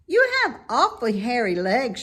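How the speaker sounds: high, loud piggy voice; a young pig, eager and impressed; bright squeaky pig voice; Wilbur the pig. A narrator's reading.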